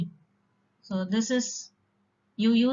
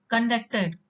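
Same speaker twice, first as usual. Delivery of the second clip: con-DUCT-ed, weak first syllable; "conducted" as a verb, con-DUCT-ed; stress on second syllable. Shown as a demonstration. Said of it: "stress in the second syllable".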